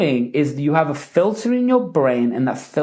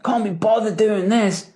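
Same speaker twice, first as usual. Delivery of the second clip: light and joking, higher at the start; fun, carefree take on a gripe; playful, not serious; 5 semitones higher than usual. Shown as a demonstration. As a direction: toss it off like it's a joke. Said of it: "Happiness, fun. You're not even taking the statement seriously".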